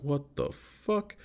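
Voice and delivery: slow, high disbelief at the bartenders' yo chant; baffled. Retold or imitated. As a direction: stretch it out in disbelief. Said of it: "And I'm like".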